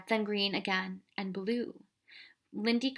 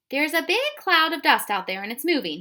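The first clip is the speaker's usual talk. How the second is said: higher, louder yell from up high; 6 semitones higher, 7 dB louder than usual. A narrator's reading. Tom yelling from the tree, a loud warning. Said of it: "he yelled".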